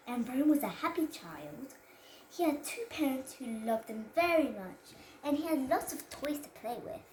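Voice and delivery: put-on careful child storyteller reading aloud; reading to a toddler. Child reads story to camera.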